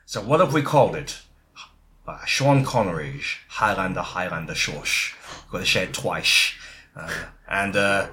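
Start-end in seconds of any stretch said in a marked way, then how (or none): 2.2-6.5 lightly voiced Scottish accent with SH for S; Sean Connery impression. Titles it as Connery would.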